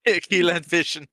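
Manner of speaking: laughing through the words. Real, not acted. Friend laughing at a misheard joke, giggling. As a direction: giggles around a misheard phrase.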